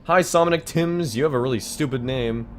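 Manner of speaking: mocking. Real, not acted. Mocking the Jedi on screen.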